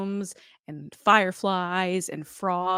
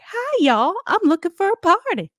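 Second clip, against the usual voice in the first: high, louder put-on host voice; mock Tiana; 12 semitones higher, 7 dB louder than usual. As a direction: overdo the cheerful welcome. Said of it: "It's literally just like".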